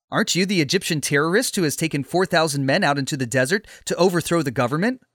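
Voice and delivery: a touch of surprise in the question; mild surprise. Acted. Captain asking Paul if he is the wanted Egyptian, mildly surprised. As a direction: question him with understated surprise, quickening at the end. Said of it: "The captain replied with surprise".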